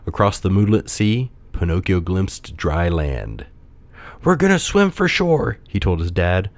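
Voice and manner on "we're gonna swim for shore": high, determined puppet voice. A narrator's reading. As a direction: take charge in a high voice. Puppet takes charge.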